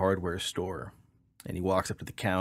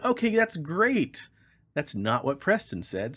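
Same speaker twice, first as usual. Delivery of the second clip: mock sarcastic reply; 7 semitones higher, 3 dB louder, slower than usual. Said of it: "And so I said".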